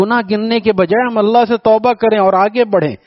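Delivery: ordinary talk, nothing marked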